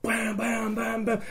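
punchy mock gunshot bams; rapid-fire vocal bangs; imitated gunfire. Player recreates the pistol volleys, imitated gunfire.

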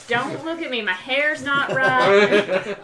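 bad Cockney accent, high and loud; hammy Cockney lady voice. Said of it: "Terrible Cockney accent".

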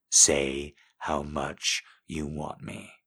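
slow, rough and husky; husky, rough command, slow. Acted. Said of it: "my voice rough and husky".

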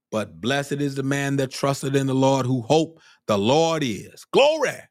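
preacher getting fired up, ending high; worked up. Real, not acted. Preacher quotes blessing on those who trust, getting worked up. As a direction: build to a high cry of praise. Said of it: "I'm getting worked up now".

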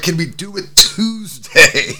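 pleading ask. Retold or imitated. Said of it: "I'm like".

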